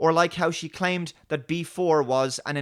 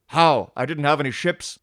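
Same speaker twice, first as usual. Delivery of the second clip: defensive captain; 4 dB louder than usual. Acted. Acted Picard and Raffi quarrel.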